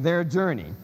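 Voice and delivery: "their" stressed in "their journey"; stress on the supplied word. Shown as a demonstration. Lecturer listing supplied pronouns, "their" stressed. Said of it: "just to emphasize the word".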